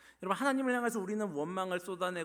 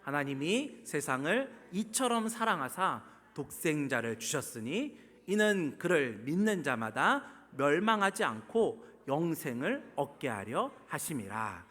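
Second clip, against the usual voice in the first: slow, measured scripture recitation; congregational recitation; 4 dB louder, slower than usual. Real, not acted. Preacher leading congregation in reciting John's verse, deliberate recitation. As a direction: lead everyone word by word, drawn out and firm. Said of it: "우리 다 같이 믿음으로 한번 고백합니다".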